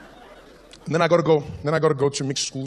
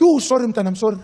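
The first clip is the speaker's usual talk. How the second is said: grandma apologising; 5 semitones higher, 5 dB louder than usual. Retold or imitated.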